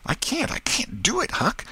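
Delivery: put-on very high, pleading boy; frightened refusal. Tom dares not peep at the dog, panicky high voice. Tom too scared to look.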